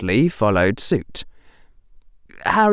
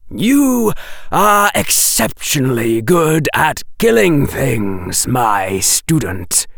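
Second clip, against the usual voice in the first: slow, louder, deliberate; menacing Quirrell; 4 semitones higher, 3 dB louder, slower than usual. Acted. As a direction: professor praising his student darkly. Quirrell voiced in audiobook.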